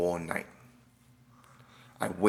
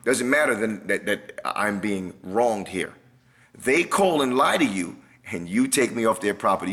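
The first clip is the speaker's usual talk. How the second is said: angry protest; 3 dB louder than usual. Retold or imitated. Man venting at officer who won't help him, heated. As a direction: let the injustice boil over. Confronting police over being removed.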